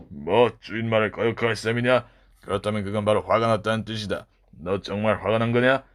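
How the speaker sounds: corner him, daring him to get angry; castle master. Acted. Master provokes the boy.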